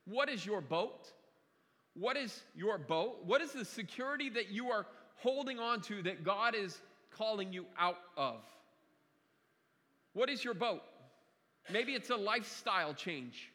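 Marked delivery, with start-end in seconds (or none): 0.0-3.2 P=A; repeated question. Shown as a demonstration. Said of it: "the question is". 10.1-10.8 P=A; stress on what. Shown as a demonstration. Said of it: "the question is".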